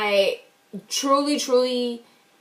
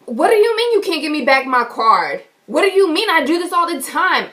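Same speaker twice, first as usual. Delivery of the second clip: indignant, mildly raised voice; retold yelling; 4 semitones higher, 3 dB louder than usual. Upset customer to teller holding her card, retold yelling. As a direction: challenge him in disbelief, a touch of yelling. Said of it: "I'm yelling at this boy".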